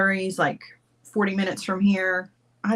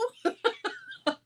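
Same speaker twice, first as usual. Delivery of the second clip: high soft giggle; 13 semitones higher, 7 dB quieter than usual. Real, not acted. Laughing at Brooke's contacts question.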